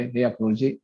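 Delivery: understated smiling humility; humble, smiling. Retold or imitated. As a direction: speak with a modest smile, retelling a kindly instruction. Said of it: "विनम्रता से मुस्कुराते हुए बोले".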